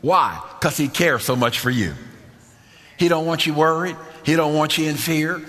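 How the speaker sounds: rhythmic, building list of reassurances; emphatic preaching. Real, not acted. Preacher tells congregation not to worry, emphatic preaching. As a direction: preach in parallel beats, then stretch the last line slowly.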